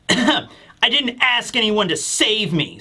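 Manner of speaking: slow, mildly bratty retort. Retold or imitated. Boy pulled out of the ocean, mildly bratty. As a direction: lightly imitate a bratty boy. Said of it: "being a little bit of a brat".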